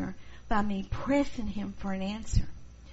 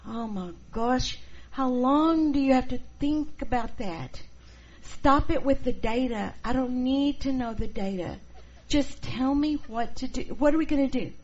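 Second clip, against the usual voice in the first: higher, louder impatient outburst, laughing; exasperated "stop it with the data", louder and higher; impatient creative performer; 4 semitones higher, 4 dB louder than usual. Retold or imitated. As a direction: hurry them up, half laughing. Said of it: "They view them as boring".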